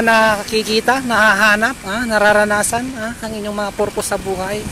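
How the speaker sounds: muffled cloth-covered speech; talking behind fabric mask; through a face mask. Real, not acted. Seen 1: Cloth mask covers nose and mouth in every labelled frame.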